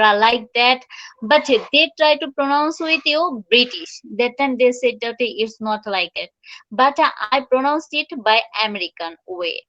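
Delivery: very slow, careful English; slow English teaching. Shown as a demonstration. Teacher explaining American versus British usage slowly. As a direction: talk the class through it slowly. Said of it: "slow English instruction".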